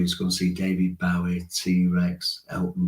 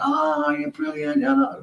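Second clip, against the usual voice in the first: put-on much higher, slow gushing girl voice; adoring girls; slower than usual. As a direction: gush like a starstruck schoolgirl. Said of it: "All the girls come around and".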